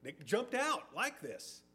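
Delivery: high-pitched, blubbering excuse-maker; hammed-up flustered stutter; Aaron. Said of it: "he's just kind of blubbering. He's stumbling over himself".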